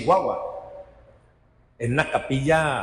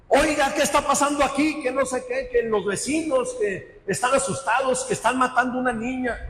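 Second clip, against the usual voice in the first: police officer; 8 semitones higher than usual. Retold or imitated. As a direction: demand what is happening. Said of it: "eran los policías". (policía exigiendo, más agudo y fuerte)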